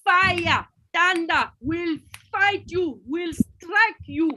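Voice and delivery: agitated patient railing at her doctor; angry patient. Acted. Patient accuses the doctor in an agitated mock rant. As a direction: blame the doctor and threaten him.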